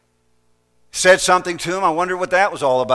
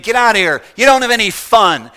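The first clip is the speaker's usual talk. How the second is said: louder mocking taunt; a mild mock yell; angry jeer; 6 semitones higher, 7 dB louder than usual. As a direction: throw it like a girl taunting and driving someone off. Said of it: "she kept saying".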